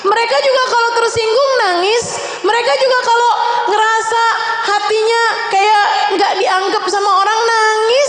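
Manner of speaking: high, impassioned sermon, half shouting; fiery preaching. Acted. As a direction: drive the message home with rising passion. Preacher rises to full force.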